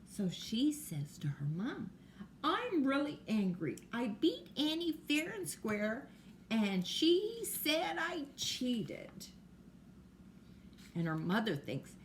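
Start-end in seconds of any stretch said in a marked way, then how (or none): 2.4-9.3 put-on upset child. Girl tells mom she's angry.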